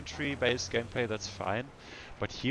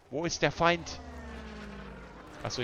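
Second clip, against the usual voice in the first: put-on German accent; 6 semitones higher than usual. Player repeating the call in mock German accent. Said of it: "I need to lose the German accent".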